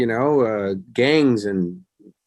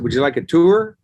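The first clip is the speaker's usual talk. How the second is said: higher-pitched tour-guide invitation; playful offer; 5 semitones higher, 4 dB louder than usual. Retold or imitated. Host offering a friend a tour of his car home, playful offer. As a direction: offer it lightly, lifting the pitch at the end.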